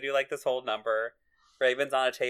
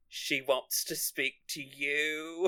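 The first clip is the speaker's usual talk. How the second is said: changed voice; 4 dB quieter, much slower than usual. Retold or imitated. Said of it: "Raven's voice changes randomly".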